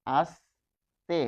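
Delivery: আস্তে with a plain dental s; ছ-like s sound. Shown as a demonstration. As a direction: say আস্তে slowly, dental s clear. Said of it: "যদি ছয়ের মতো উচ্চারণ আসে". (আস্তে দন্ত স দিয়ে ধীরে)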